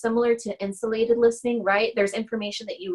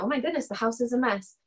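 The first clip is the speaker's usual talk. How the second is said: flat, softer, falling delivery; matter-of-fact falling remark; flat statement; 3 semitones higher, 4 dB quieter than usual. Retold or imitated. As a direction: state it plainly, no edge, falling at the end. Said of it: "they say it exactly like that".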